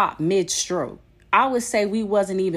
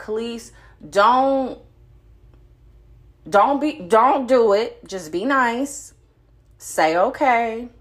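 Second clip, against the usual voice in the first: calming self-talk; 2 semitones higher, slower than usual. Retold or imitated. Talking herself into calm.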